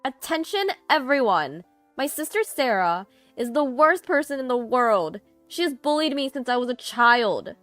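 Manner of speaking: loud, high public tirade; ranting, accusing announcement; shouted denunciation. A narrator's reading. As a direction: shout it to the whole wedding crowd. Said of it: "by shouting".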